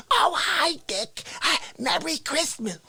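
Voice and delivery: high-pitched cartoon mom; mother voice. Mother greeting her son at Christmas, high-pitched put-on voice. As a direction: chirp it high like his mother. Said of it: "she comes over with a turkey".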